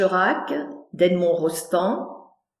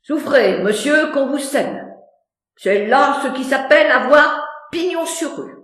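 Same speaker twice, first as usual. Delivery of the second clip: higher, bowing courtesy; respectful; 4 semitones higher than usual. Acted. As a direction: deferential courtier.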